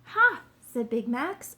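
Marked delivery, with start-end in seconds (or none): 0.1-0.4 loud, high burst of discovery; triumphant exclamation. A narrator's reading. Detective spots a clue on the ground, triumphant. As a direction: cry out as if you've just found it.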